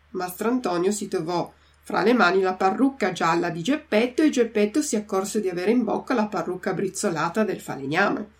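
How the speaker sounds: usual speaking voice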